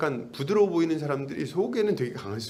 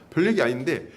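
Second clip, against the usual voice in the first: ordinary talk, nothing marked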